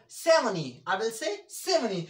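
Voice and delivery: seventy as sevenny, T silent; सेवेंटी and seventy with a double N; British pronunciation. Shown as a demonstration. Teacher showing the right way, seventy without the T. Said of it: "तो that's wrong".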